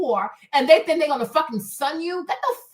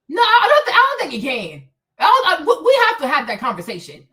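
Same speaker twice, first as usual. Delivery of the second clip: emphatic; 6 dB louder than usual. Real, not acted. Emphatic insistence.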